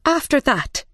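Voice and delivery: high character voice; Mad Hatter. A narrator's reading. Mad Hatter continuing his evidence to the court, high voice. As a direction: carry on in a high voice.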